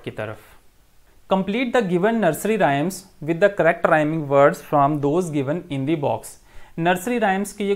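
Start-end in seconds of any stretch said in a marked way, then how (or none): 1.3-6.3 slow, deliberate reading of the task; teacher carefully reading the textbook instructions aloud to students. Acted. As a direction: read the instructions out slowly for the class. Teacher reads the exercise instructions.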